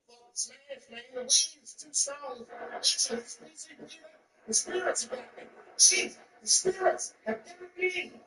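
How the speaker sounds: high, slow panicked wailing; hammed-up stoned terror; mock panic.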